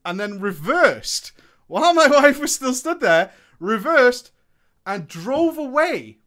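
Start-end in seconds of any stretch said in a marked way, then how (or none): 1.7-6.2 louder, disbelieving outrage with a laugh; outraged. Real, not acted. Telling viewers how the driver fled, outraged and loud. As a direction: let the outrage burst out.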